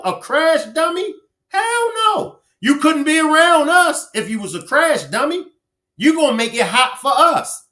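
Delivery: hyped, teasing call-out to the listeners; excited rant. Real, not acted. Ranting about old days, pitched up.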